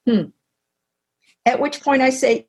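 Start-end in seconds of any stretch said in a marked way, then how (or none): 0.1-0.3 imitated grunt. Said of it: "he grunts".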